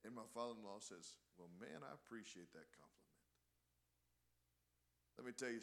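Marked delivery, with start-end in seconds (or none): 1.4-3.1 low, soft, unruffled retort; calm reply. Retold or imitated. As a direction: quote an unbudging preacher answering quietly. Father-in-law calmly answers the heckler.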